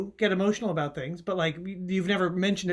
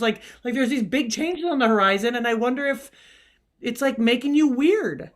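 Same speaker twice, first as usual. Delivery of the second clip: a touch of anger; 3 semitones higher than usual. Acted. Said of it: "You seem a little angry right now".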